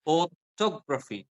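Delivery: "Photography" stretched slowly, syllable by syllable; stressed syllable demo. Shown as a demonstration. Teacher quizzing a student on where to stress, demonstrative stress on "Photography". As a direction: draw out "Photography" to show its stress. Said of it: "Where do you stress?".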